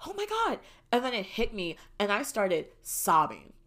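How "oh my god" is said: high, squeaky rapid-fire squeals, held back in volume; mock screaming. Daughter tells mom she got the apartment, mock screaming. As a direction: repeat it like a miniature scream of joy. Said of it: "screaming at the top of my lungs".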